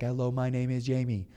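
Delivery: lightly robotic greeting; automated soundboard. Retold or imitated. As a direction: imitate an automated phone message. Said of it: "it sounds like an automated soundboard".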